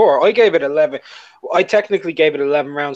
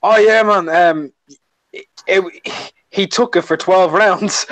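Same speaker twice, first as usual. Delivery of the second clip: passive-aggressive compliment; 3 semitones higher, slower than usual. Retold or imitated. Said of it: "like, passive aggressive, was all like".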